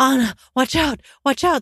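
put-on high scream. Retelling hearing her mom from behind her locked bedroom door, imitating mom screaming. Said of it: "I hear my mom screaming".

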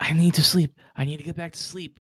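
frantic, desperate, panicked outburst, losing control. Voicing a man trying to climb back into the stasis pod, in frantic panic. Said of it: "He's kind of doing that right now".

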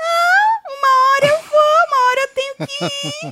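very high little voice. Retelling what Morango answered when asked if she feared going: imitating a thin little voice. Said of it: "com a vozinha fina, afinou a vozinha dela".

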